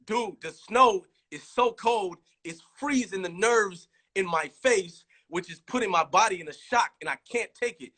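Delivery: explaining to NF why he can't take the cold; mock distressed plea. Retells explaining shock from cold.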